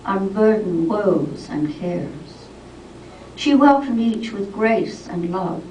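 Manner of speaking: measured verse with falling line ends; poem reading. Acted. Poet telling of Julian of Norwich, measured poetry reading. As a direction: recite it line by line, pausing between phrases.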